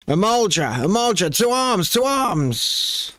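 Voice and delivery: raising the alarm. Acted.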